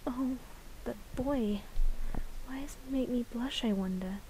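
put-on a bashful girl murmuring to herself; shy flower girl. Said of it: "vocal lines for that flower girl".

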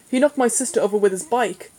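mildly indignant accusation; aggrieved boy complaining. A narrator's reading. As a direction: report the wrong with affronted urgency. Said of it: "Simon said indignantly".

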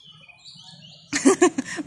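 high, loud burst of laughter; bright laugh. Real, not acted. Guide laughing at a lottery-number joke, loud laugh. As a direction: laugh out at your own joke.

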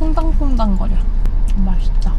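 talking while chewing; muffled chewy speech; mouth full of tart. Real, not acted. Seen 4: bites tart at 2.5-3.7s, then speaks while chewing.

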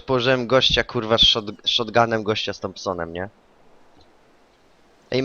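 ordinary delivery

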